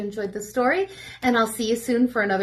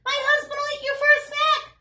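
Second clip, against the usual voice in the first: much higher giant woman voice; 14 semitones higher than usual. Acted. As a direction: warn like a worried giantess. Giant woman warns Jack.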